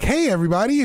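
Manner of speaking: high, squeaky hey everybody; high-pitched guy. Retold or imitated. Host mocking the high-pitched guy greeting, squeaky. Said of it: "The guy that's just like".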